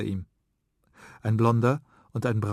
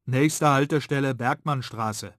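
raised announcer voice; tram announcement; 4 semitones higher, 3 dB louder than usual. Acted. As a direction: call the stop like a tram speaker. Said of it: "Da kommt die Ansage".

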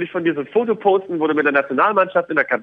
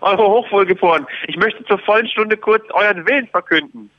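snooty aristocratic german; 3 semitones higher than usual. Pretend. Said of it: "Euer Hochwohlgeboren".

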